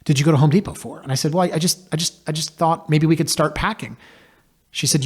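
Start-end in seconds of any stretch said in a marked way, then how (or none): 0.0-1.0 raised-pitch mild exasperation; retold annoyed question; mock annoyed wife. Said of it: "and a frown". 1.3-4.0 higher-pitched, stammering self-defence; acted sheepish stammer; sheepish excuse. Retold sheepish excuse to wife.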